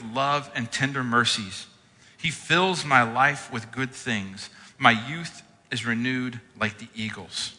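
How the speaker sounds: measured, emphatic psalm reading; scripture reading. Acted. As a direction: read the psalm with reverence.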